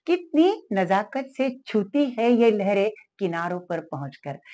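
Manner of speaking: free verse recital. Shown as a demonstration. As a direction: read the verse gently, savouring it. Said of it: "मुक्त छंद सुनाती हूँ". (कोमल कविता पाठ)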